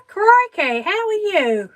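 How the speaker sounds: loud, high surprised greeting; delighted surprise. Real, not acted. Welcoming a viewer who just joined, surprised and delighted. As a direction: exclaim it, thrilled she came.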